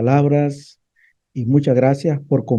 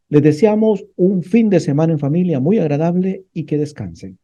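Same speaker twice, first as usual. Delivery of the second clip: raised, projected radio host delivery; radio announcer closing a programme; radio sign-off; 4 semitones higher, 4 dB louder than usual. Real, not acted. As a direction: address the listeners and sign off with emphasis. Radio host addresses audience, signs off.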